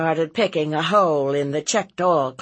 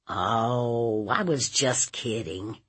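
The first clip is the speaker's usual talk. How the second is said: sheepish nephew; 2 semitones lower than usual. Acted. Nephew excusing himself to his aunt, sheepish. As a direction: offer a weak, subdued excuse.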